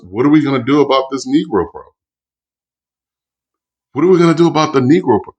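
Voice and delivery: hammed-up alarm about the problem; mocking the racist cry. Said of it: "The constant cry from whites was".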